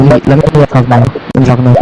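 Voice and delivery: breaking up over a bad mic connection; scrambled voice. Real, not acted. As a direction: voice cutting in and out on a call. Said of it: "Bro, your mic is cutting out".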